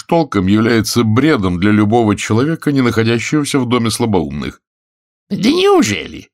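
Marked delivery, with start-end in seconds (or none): 5.3-6.3 slow, high, mocking disbelief; sarcastic. A narrator's reading. Husband mocking his wife, sarcastic. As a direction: drip sarcasm on it. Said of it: "Язвительно произнёс Вадингтон".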